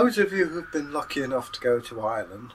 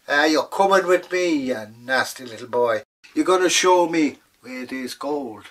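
louder, bossy crone; old woman dragging the leprechaun off to find gold; old woman scolding; 4 dB louder than usual. Acted. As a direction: order the little boy about.

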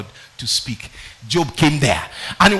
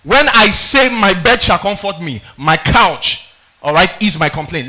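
angry Job quote; 6 dB louder than usual. Retold or imitated. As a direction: read Job's complaint with rising force. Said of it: "he got so angry".

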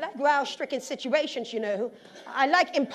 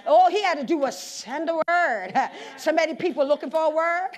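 laughing while preaching; 4 dB louder than usual. Real, not acted. Preacher laughing through his point.

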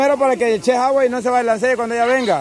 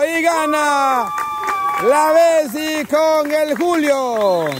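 slow, stretched host announcement; drawn-out announcer call; 2 semitones higher, slower than usual. Real, not acted. Host announces the winning pair to the crowd, drawn-out announcer call. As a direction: call the winner out like an announcer, dragging the words.

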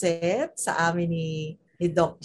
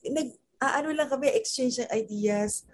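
mock reassuring parent; 8 semitones higher than usual. Parent answering child in story.

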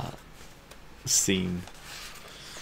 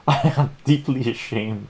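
mock shame; 4 semitones higher, 4 dB louder than usual. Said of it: "Ron says".

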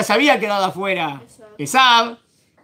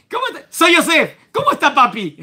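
put-on Yosef chatting like a kid brother, higher and brighter with a laugh; chummy brother; 8 semitones higher, 3 dB louder than usual. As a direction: toss it off like an old family joke. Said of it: "Es como diciendo". (Yosef como hermanito bromista)

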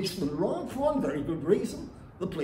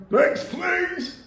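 high, bright barber's call; calling next; 12 semitones higher, 4 dB louder than usual. Retold or imitated. Barber calling waiting customers, high and bright. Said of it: "his voice went from saying".

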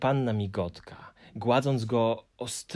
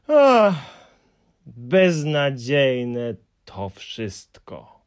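despairing cry; 2 semitones higher, 8 dB louder, much slower than usual. A narrator's reading. Hemulen crying out in despair about his stamps. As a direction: wail out the hopelessness. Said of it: "zawołał w końcu Paszczak".

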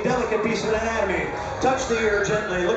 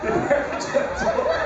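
squeaky high voice. Acted. Mock high squeal repeat.

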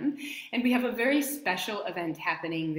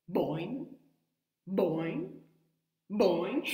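bouncy rising boing; boing upward with each jump; frog boing; much slower than usual. Shown as a demonstration. Showing kids how her frog jumps, bouncy. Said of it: "he jumps like this".

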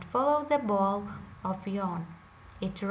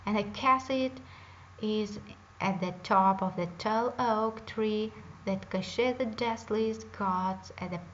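witch voice. Acted. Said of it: "said Baba Yaga".

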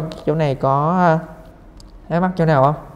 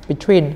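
"Between" stressed on the last syllable; second-syllable stress. Shown as a demonstration. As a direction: put the weight on "tween" in "Between". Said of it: "là những âm hai nha". (nhấn âm hai của "Between")

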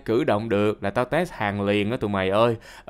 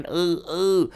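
muffled moaning; 5 semitones higher than usual. Retold or imitated. Gagged man's cries reduced to groans, imitated moaning. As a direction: act out moaning through a gag. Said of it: "âm thanh nó hạ xuống rên".

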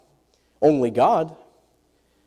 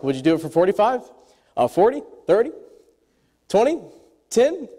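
haggling, climbing bids. Retold or imitated. Abraham haggling with God.

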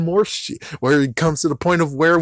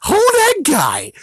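slow command; 3 dB louder, slower than usual. Acted. Skit character shouts command.

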